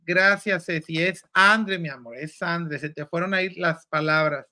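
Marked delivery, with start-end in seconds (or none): 1.0-2.8 "Andre" stressed on the A instead of the final E; accent dropped from name. Real, not acted. Host correcting a viewer on the co-host's name, misplacing the stress in "Andre". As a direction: say "Andre" with the first syllable stressed. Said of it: "el Gama siempre le quita el acento".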